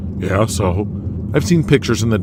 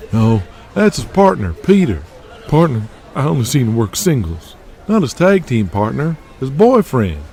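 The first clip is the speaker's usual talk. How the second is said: raised voice of a smoking agent; 4 semitones higher than usual. Acted. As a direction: talk him up like an old promoter.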